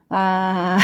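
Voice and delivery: ordinary talk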